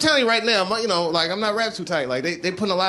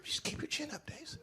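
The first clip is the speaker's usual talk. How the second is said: soft, lower condescending comfort; mock advice giver; 10 semitones lower, 13 dB quieter than usual. Show-business friend consoling Dave, lightly mocked soothing. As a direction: patronise him gently. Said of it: "they be saying stupid".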